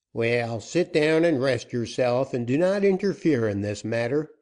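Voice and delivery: a gruff-tempered captain pressing for terms; outlaw captain. Acted. Joaquin dismisses her.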